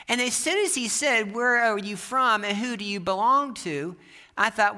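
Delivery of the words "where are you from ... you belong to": milder quote of a preacher's challenge, slightly raised; retold preacher's questions. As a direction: repeat the questions with a light touch of the preacher. Preacher's questions repeated more mildly.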